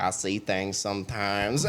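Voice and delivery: low, soft imitation of an Appalachian drawl; Appalachian-Southern accent. Kentucky recruit to the fire guard, imitated Appalachian-Southern accent. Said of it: "weird, like, mix of Appalachian and Southern accent".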